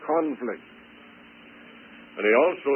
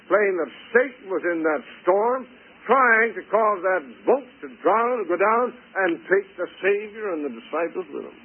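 raised, high preacher's storytelling; impassioned preaching; 6 semitones higher than usual. Real, not acted. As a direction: tell it with pulpit urgency, pitched up. Preaches the storm story at full force.

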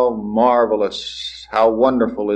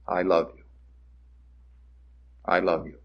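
much softer and lower, almost breathed; hushed tender love; 4 semitones lower, 9 dB quieter than usual. Acted. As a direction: let God's love fall gently, near silence. God speaks to sinful people.

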